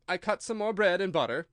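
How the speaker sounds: a hint of a nervous hatter thinking; hesitant Hatter. A narrator's reading.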